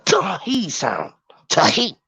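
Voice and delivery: "T-he" split into a T and a he; sounded-out TH. Shown as a demonstration. Speaker shows listeners the TH sound, "T-he" sounded out in two parts. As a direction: break "T-he" in two, T then he. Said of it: "T H don't make the D sound".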